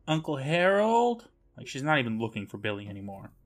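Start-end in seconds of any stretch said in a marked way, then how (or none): 0.1-1.3 high, slow searching call; mock calling out. Host as Sheena searching the cave, imitated calling out. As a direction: stretch it upward as if calling into a cave. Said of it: "calling out".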